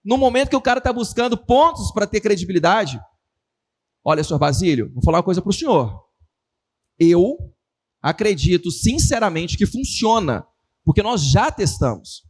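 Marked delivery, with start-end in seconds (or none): 4.0-12.2 convince the doubting client earnestly; serious tone. Shown as a demonstration. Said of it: "eu usando um tom mais sarcástico, mais engraçado e um tom sério". (vendedor sério e pausado ao cliente)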